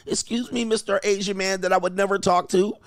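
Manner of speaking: high-pitched mock sweet-talk; mock woman's voice. Host mimics women approaching an Asian man, mock woman's voice.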